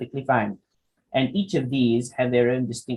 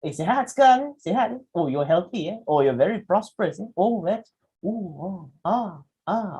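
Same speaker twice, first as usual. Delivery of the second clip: high, chirpy mock uncle voice; lightly voiced auntie teasing with euphemisms; playful nudging uncle; teasing Malaysian uncle; 5 semitones higher than usual. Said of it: "Oh, they say".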